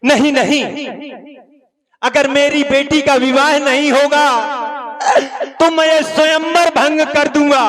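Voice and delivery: angry challenge. Acted. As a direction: call out the scholars with rising anger. King's angry challenge to scholars.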